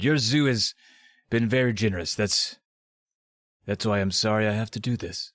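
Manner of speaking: put-on Scottish accent, measured; Sean Connery. Doctor D apologizing to the zoo people, attempted Scottish accent. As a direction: deliver it in a loose Scottish film-star accent. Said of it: "in his best Sean Connery accent".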